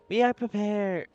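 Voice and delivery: high, loud and slow, one collective voice; hive mind voice. Acted. Hive mind declaring readiness to the group. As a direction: announce it as a proud alien collective. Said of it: "now I'm in a different accent".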